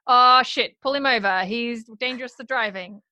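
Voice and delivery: sudden loud cop call; loud mock alarm from a cop; startled cop. Retelling cop reacting.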